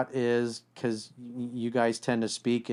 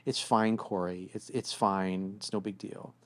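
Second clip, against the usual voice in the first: sulky it's fine; 2 semitones lower, 5 dB quieter than usual. Retold or imitated. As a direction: mimic her passive hurt. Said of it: "when she's like".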